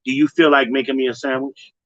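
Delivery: mock woman coaxing her man. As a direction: ask it gently, the way women would. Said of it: "Women gonna say".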